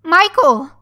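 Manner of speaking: high, loud cry of shock; horrified cry. A narrator's reading. Victim finding the boss dead, horrified cry. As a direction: call the name out in horror. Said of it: "I cried".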